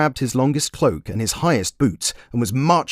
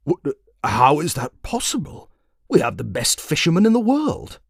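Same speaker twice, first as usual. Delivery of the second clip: startled king; 6 semitones higher than usual. Acted. King in disbelief.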